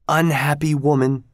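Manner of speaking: lightly voiced servant scolding a queen; disguised servant's rebuke. A narrator's reading.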